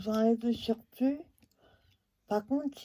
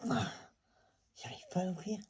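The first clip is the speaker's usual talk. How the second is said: opening a stuck jar; 2 semitones lower, 6 dB quieter, faster than usual. Real, not acted. Still failing to open the jar.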